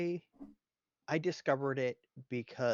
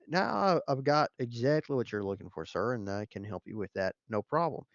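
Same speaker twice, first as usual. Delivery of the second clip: mock Georgia salesman accent; 3 dB louder than usual. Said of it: "on the phone with someone who's calling from Georgia".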